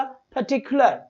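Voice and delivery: "पर्टिकुलर" slowed, syllables marked out for stress; word stress demo. Shown as a demonstration. Teacher repeating the example, "पर्टिकुलर" spoken slowly and emphatically. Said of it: "इस तरीके से बोला जाता है इन words को".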